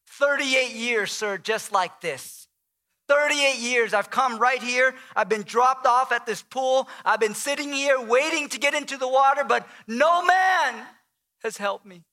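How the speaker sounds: mildly sarcastic complaint, swelling near the end. Acted. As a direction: lay out the grievance with mounting sarcasm. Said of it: "maybe that's the sarcastic tone".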